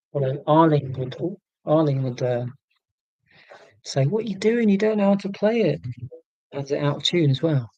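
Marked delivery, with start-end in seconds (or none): 4.1-5.8 higher-pitched mock telling-off; imagined scolding. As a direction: imitate someone nagging in a higher voice. Voices Arlene's imagined telling-off.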